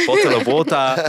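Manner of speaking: British "Bottle of water" with the t said crisp and the r dropped; British accent. Retold or imitated. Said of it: "I'll say".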